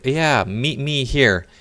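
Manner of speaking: high, very slow mocking drawl; mock woman's reply. Mocking the woman's reply to her date, high and drawn out. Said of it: "and she said".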